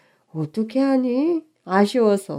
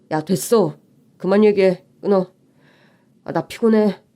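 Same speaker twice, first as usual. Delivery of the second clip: curt anger. Acted. Fiancé snapping at the bride on the phone, annoyed. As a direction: shut her down and hang up.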